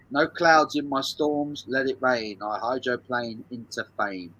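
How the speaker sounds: slow, measured reading that fades at the end; slow lyric reading. Shown as a demonstration. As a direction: spell the lyrics out slowly for the quiz. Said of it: "One more time".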